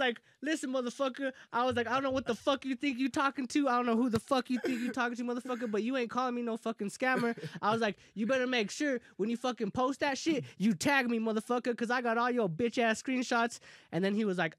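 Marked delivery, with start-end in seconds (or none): 0.4-1.3 raised pitch, telling someone off; retold angry rant. Retelling voice messages to the seller, angry. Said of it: "I went off on him". 1.9-7.4 higher-pitched, heated telling-off; retold angry rant. Retelling a reply to being called scammer, angry. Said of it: "I went off on him". 8.1-13.6 retold angry rant. Retelling a reply to being called scammer, angry. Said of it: "I went off on him".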